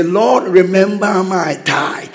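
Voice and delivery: mock prayer of a tither. Preacher acting a tither praying against juju, building. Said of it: "You say".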